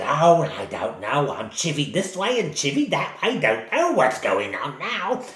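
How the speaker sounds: lightly voiced old lady muttering to herself; a fussed granny complaining as she goes; grumbling old woman.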